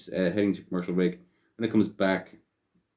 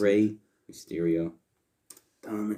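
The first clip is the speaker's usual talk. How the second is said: 1 mock Mexican accent. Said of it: "such a racist accent".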